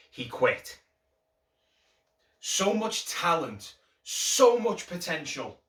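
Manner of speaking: heartfelt dramatic monologue, key phrases pushed harder. Acted. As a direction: deliver it as an emotional audition piece, pausing between lines. Performs audition monologue.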